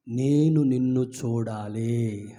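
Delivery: slow, low pleading; humble plea. Acted. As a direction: blind beggar begging Jesus for sight. Blind beggar's plea to Jesus.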